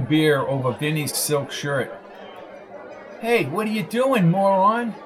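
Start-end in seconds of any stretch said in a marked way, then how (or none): 3.2-4.9 yelling. Acted. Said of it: "yelled Coco".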